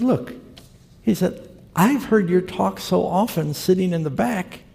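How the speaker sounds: lightly voiced eager driver. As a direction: lift the voice up high for the driver.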